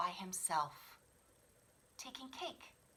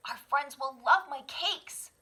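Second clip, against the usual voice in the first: proud cub; 7 semitones higher, 10 dB louder than usual. Acted. Child bear proud.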